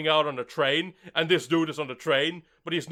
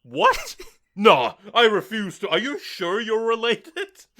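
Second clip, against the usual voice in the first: much higher, then slow with a mock whimper; appalled sister; 4 semitones higher, 4 dB louder, slower than usual. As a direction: recoil in disgust like an offended sister. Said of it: "and she's like".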